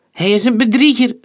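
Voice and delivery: high, loud shout; furious shouted accusation. A narrator's reading. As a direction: yell it at the window. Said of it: "riep Cavallal".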